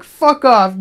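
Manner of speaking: mock outburst at a dude; angry retort. Telling off a dude about the cousin, mock angry retort.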